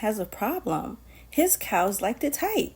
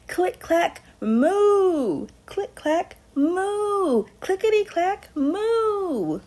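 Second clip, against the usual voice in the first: rising refrain; 8 semitones higher, much slower than usual. Acted. Reader building the typing refrain, pitch climbing. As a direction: click clack moo climbing in pitch.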